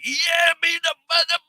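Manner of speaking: retold scream at the TV. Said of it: "I'm screaming at the T V".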